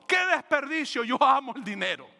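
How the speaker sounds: mock shout. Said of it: "Mas Judas gritó".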